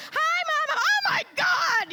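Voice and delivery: other women texting. Retold or imitated. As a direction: chirp it like a giddy texting mom-to-be. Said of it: "They're like".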